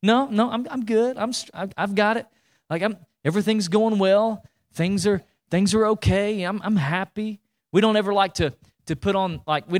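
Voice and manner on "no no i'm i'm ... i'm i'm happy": higher, forced cheery I'm fine voice; fake I'm fine. Mimicking churchgoers pretending all is well, forced cheer. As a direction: brush it off like nothing's wrong. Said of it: "put on this facade that we got it all together".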